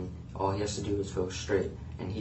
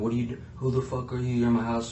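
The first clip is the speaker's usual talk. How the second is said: shouting as hard as possible, full volume; 3 semitones higher, 4 dB louder than usual. Retelling confronting an intruder in the house, imitating his own loud yelling. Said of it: "yelling as loud as I can".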